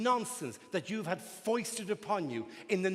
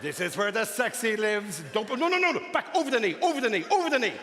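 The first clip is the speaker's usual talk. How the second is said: fussy stocking voice; 5 dB louder than usual. Acted. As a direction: boss the stockings around like a picky fitter. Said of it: "How ludicrously specific is this".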